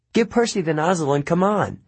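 firm command, stress on give; ordering. Acted. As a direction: order him bossily. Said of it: "she ordered".

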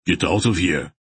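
roaring. Acted. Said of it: "Barak roared at them".

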